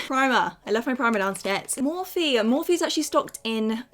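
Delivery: breathless after rushing upstairs; panting between words; out of breath. Real, not acted. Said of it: "I'm still out of breath".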